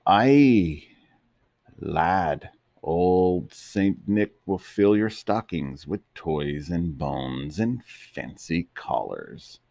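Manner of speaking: put-on rolled thick Scottish burr for an old dog; thick Scottish accent. Scottish dog promising Santa's gifts, thick Scottish accent. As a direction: speak it in a thick Scottish brogue. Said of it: "heard a voice with a thick Scottish accent".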